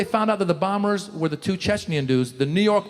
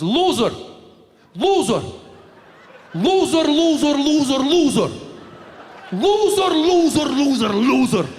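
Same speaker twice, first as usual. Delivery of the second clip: imitated angry uncle; 6 semitones higher than usual. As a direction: bark it at the reporters like a furious uncle. Uncle ranting at press conference.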